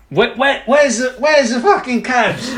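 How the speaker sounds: slow, exasperated mock cockney shout-whine in a put-on London accent; Charlie Hunnam's bad accent. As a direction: parody of a terrible film London accent. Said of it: "it's also the peak of the terrible accents".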